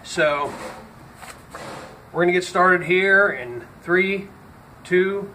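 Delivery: talking with a dip in; words around a lip of snuff; lip full of dip. Real, not acted. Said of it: "Got a dip in my mouth".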